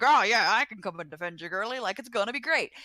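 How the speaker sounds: a hint of a cocky Southern guy; Southern accent. Podcaster voicing Grey Worm as a cocky Southerner, light Southern accent. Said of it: "suddenly got real Southern".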